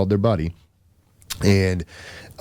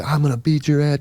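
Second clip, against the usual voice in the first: mock threat; 8 semitones higher than usual. Imitates drunk guy threatening him.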